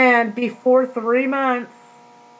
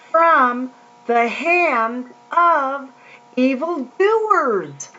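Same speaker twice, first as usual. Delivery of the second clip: slow, declaimed Bible verse; scripture reading; much slower than usual. Acted. Preacher reads Jeremiah to the listeners, slow proclamation. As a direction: draw out each phrase with long solemn pauses.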